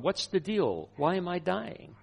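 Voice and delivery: half-strength retold outcry; retold yelling. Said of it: "I had been yelling out to God".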